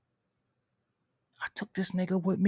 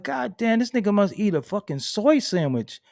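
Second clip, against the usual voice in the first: mock outrage; 4 semitones higher, 6 dB louder than usual. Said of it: "I'm like".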